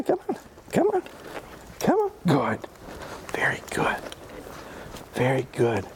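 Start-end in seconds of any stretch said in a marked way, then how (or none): 0.0-2.1 much higher, bright come on to the dog; high coaxing call. Real, not acted. Coaxing dog after success. 3.3-4.0 whispered praise. Real, not acted. Quiet praise to dog.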